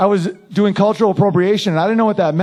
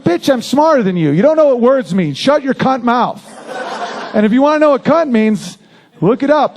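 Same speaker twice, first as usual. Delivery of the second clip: mock yell; 4 semitones higher than usual. Comedian yells insults at the lady.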